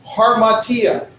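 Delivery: harmatia begun on a clear H, drawn out; H sound added. Shown as a demonstration. Teacher showing Greek learners the rough breathing, harmatia with an H sound. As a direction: say harmatia slowly with a breathy H at the front. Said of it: "you're gonna add an H sound".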